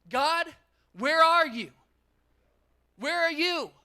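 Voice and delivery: mock believer wailing at God about a stolen destiny; whiny complaint to God. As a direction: moan at God like everything's unfair. Whining complaint voiced to God.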